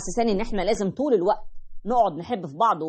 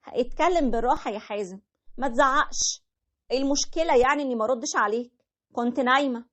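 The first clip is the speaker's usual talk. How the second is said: higher, defensive wife voice; wife in a quarrel; 4 semitones higher than usual. Retold or imitated. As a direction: play the wife pushing back. (الزوجة بتدافع عن نفسها بصوت أعلى)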